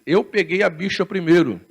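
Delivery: quoting the quarrel while laughing; mock argument, laughing. Preacher retelling airport quarrel, laughing. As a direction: chuckle through the Muslim man's line. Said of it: "esse muçulmano brigando com o português".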